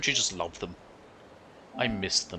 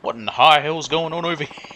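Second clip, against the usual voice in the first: mildly raised, twangy put-on accent voice; 3 semitones higher, 4 dB louder than usual. Gang boss finding trouble on his turf, put-on accent. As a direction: read the character in a silly put-on accent. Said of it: "Why did I do that accent voice for him?".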